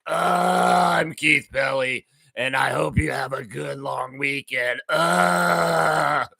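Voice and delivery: lightly put-on smug executive drawl; mock the CEO's smug tone; a hint of a smug CEO; Keith Pelly voice. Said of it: "this is gonna be the Keith Pelly voice".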